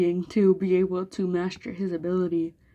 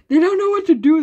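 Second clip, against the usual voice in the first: amused excitement; 9 semitones higher, 9 dB louder than usual. A narrator's reading. Narrator mocks flustered enemy.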